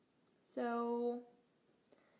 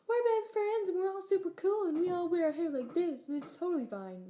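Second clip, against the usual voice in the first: much higher, louder, ditzy bragging; squeaky popular-girl voice; 8 semitones higher, 5 dB louder than usual. Retold or imitated. Clique girls bragging about being best friends, high squeaky and loud. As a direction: play a giggly clique girl showing off.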